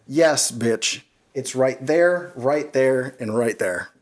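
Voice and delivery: slow, sarcastic pointing out each piece; deadpan sass, spelling it out; snarky retort. Retold or imitated. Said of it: "And I said instinctively".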